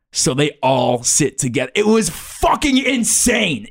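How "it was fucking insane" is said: blown away. Real, not acted. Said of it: "my mind was blown".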